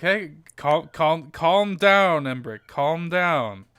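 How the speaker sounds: slow, soothing plea to a hothead; water Genasi slowly calming the fire Genasi; calming him down. Acted. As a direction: settle him with slow repeated words. Avi soothing angry Embrick.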